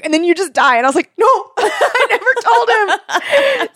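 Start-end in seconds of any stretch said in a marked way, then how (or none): 1.2-3.7 high laughing regret. Real, not acted. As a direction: laugh through the words. Regretting game choice, laughing.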